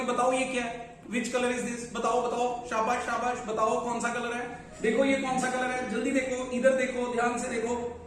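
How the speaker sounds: lightly voiced parent coaxing a child to answer; parent teaching child. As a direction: keep prompting the child, urging attention. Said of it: "मैं तो बच्चे का नाम लेकर बोलूंगा". (बच्चे को सिखाते अभिभावक की हल्की नकल)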